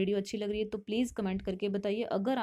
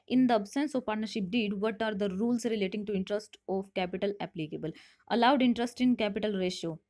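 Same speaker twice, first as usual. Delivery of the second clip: reading the question out slowly; measured, deliberate classroom read; slow quiz reading; much slower than usual. Shown as a demonstration. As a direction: spell out each option for students. Reads quiz question aloud slowly.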